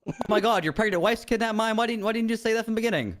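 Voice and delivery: high, stunned gasp of disbelief; a cop learning the mime's wife is kidnapped, high and stunned; shocked realization. Acted. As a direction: react as if struck by the news.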